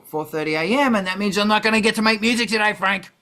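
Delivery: exasperated rant. Real, not acted. Owner gripes at his cat Frank about 3 AM wake-ups, fast exasperated rant. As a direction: rattle it off like a fed-up cat owner.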